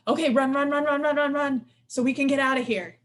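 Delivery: mock panic urging escape; panicked nervous system. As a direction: voice the body's urge to flee. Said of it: "My nervous system starts going".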